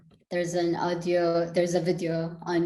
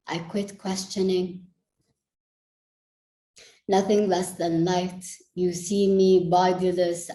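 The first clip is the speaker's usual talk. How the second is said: spoken-word poem, measured and deliberate phrasing; poetry recital. Acted. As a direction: recite it as a poem, letting phrases land between pauses.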